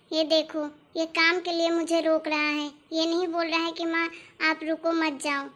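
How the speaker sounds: low, weary appeal to heaven; exasperated lament. Acted. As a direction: lament a useless son, voice dropped. Mother laments her selfish son.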